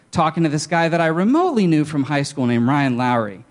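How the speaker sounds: usual speaking voice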